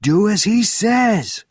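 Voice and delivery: high, loud and slow; roared. A narrator's reading. Benjamin roaring at the officer from behind Bourne, high and loud. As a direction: roar the command. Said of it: "roared Benjamin's voice".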